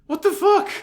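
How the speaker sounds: racing mind. Real, not acted. Fan spiraling over clone theories, excited and rising. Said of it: "My mind is racing".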